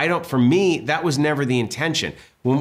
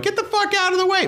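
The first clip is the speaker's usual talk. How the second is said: shouting; faster than usual. Retold or imitated. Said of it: "running, going".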